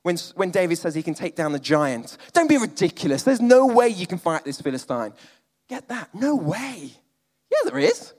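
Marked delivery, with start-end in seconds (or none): 2.3-5.1 scoffing king. Acted. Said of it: "This is Saul talking to David". 6.1-8.1 defiant retort. Real, not acted. Preacher retorts to Saul.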